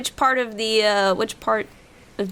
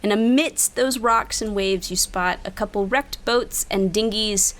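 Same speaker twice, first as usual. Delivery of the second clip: game master scene setting. Acted. GM describes what players see.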